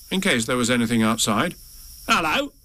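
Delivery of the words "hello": high-pitched creature answering back; strange animal. A narrator's reading. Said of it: "said whatever it was".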